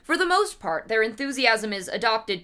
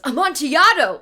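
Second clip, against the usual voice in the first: loud, high cry of the wine's name; excited Amontillado; 6 semitones higher, 8 dB louder than usual. Acted. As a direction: grab at the word like a prize. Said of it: "So he goes".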